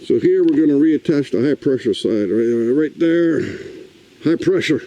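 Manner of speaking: breathless, panting between words; winded from the work; out of breath. Real, not acted. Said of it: "I'm out of breath".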